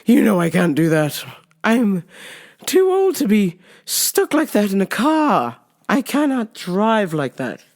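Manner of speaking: a hint of a protesting mother; lightly imitated mom. Mom refusing to drive cramped, lightly imitated. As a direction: lightly act out mom's refusal. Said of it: "She's like".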